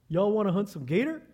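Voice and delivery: imitated southern game warden; southern accent. Game warden repeating his gator hunt offer, southern accent. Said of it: "comes over with his southern accent".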